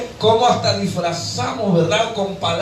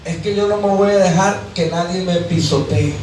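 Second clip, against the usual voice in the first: defiant wife. Retold or imitated. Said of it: "¿Cómo dicen allá afuera?".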